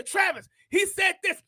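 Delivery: eager retold exclamation; excited wife, imitated. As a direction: imitate a wife sharing thrilling news. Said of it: "We both would get excited".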